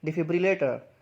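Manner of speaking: डिफिब्रिलेटर in full, "di-fib-ri-lay-ter"; careful model of डिफिब्रिलेटर, falling at the end; model pronunciation. Shown as a demonstration. Teacher models a hard word for learners, model pronunciation. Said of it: "इसको कैसे बोलेंगे".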